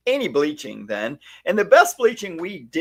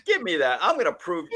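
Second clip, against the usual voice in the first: put-on disbelieving young self; 10 semitones higher than usual. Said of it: "I was like".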